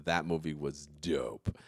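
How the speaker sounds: slow, lightly deep cowboy drawl; a hint of Sam Elliott, slow. Talking movies with friends, slow mild Sam Elliott voice. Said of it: "that's Sam Elliott".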